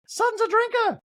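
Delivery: high mock Dorit voice; Dorit impression. Recapper mocking Dorit accusing Sutton, high voice. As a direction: squeak it out as Dorit. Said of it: "Dorit's like".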